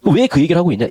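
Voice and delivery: usual speaking voice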